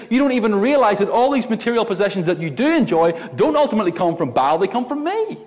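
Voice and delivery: preacher voicing God's reproach. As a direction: speak as a generous, hurt God. But what God says is this.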